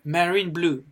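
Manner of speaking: marine blue said as an English phrase; mistaken English guess. Shown as a demonstration. Teacher voices the likely mistake, English-sounding marine blue. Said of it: "on pourrait dire".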